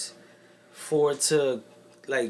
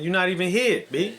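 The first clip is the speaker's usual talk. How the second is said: laughing; 5 semitones higher, 4 dB louder than usual. Real, not acted. Teasing friend, laughing.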